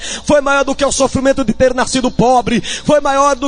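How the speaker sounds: rising, sung preaching cadence; preaching at full force. Acted. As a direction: preach it, building over the music. Preaching over music. (pregação inflamada, quase cantada)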